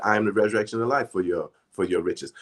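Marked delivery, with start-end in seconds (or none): 0.0-1.1 fast decree recital. Shown as a demonstration. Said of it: "Use the".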